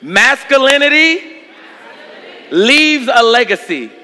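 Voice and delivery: slow, weighted repeat line; preacher's drawn-out echo line; call-and-response line. Shown as a demonstration. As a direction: draw it out for them to echo. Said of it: "Somebody say this with me".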